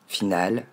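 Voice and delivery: FINAL ending in an open French A; French learner's "final", rhyming with "pal"; mistaken A ending. Shown as a demonstration. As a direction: say "final" with a clear "al" at the end. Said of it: "comme un A".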